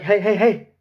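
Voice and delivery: put-on high, pushy kid voice; whiny kid voice. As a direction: nag like a bossy kid. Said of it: "You dude come pushing me like".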